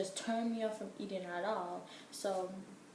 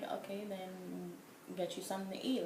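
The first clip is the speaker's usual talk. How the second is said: annoyed; 5 dB quieter than usual. Retold or imitated. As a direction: give in, fed up with him. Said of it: "I was annoyed".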